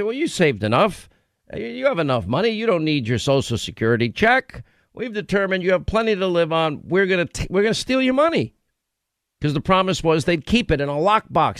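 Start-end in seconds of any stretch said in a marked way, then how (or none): 0.0-8.5 mock government voice. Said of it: "they're gonna say".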